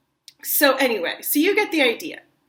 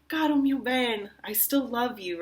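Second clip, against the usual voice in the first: loving plea; 3 semitones higher than usual. Shown as a demonstration. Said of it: "You wanna be like".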